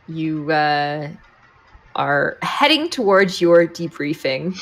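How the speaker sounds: ordinary delivery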